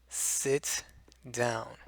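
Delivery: crisp T in "Sit down", each letter clear; "Sit down" with the T fully pronounced; tense, deliberate. Shown as a demonstration. Teacher demonstrating a careful, tense "Sit down". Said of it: "it's being emphasized".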